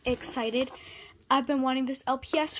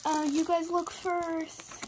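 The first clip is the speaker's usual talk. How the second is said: whisper; 4 semitones higher, slower than usual. Real, not acted. Hiding the box, urging viewers.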